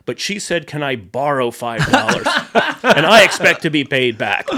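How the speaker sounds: mock-indignant rich man, only lightly voiced, giggling; half-done Christopher Lloyd. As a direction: tell the story as Christopher Lloyd, barely putting on the voice and cracking up. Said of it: "I'm not gonna do it in the Christopher Lloyd voice".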